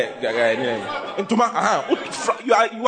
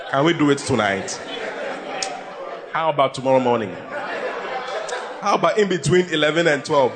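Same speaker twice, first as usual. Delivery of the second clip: tentative, lower-pitched asking; pleading husband; 5 semitones lower than usual. Acted. A husband asking his wife for intimacy, pleading. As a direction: plead meekly, with hopeful bargaining. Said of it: "is a husband who's asking".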